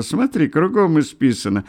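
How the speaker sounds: high-pitched admiring excitement; excited, admiring exclamation; delighted amazement. A narrator's reading. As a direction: point it out, thrilled and marvelling. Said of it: "восхищённо ахнул Николка".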